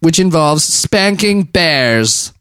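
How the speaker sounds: slow, laughing delivery. Real, not acted. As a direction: read it cracking up. Laughing reading news.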